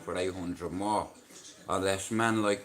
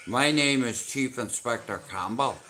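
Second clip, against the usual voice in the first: Campbell impression. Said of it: "I can do an accent".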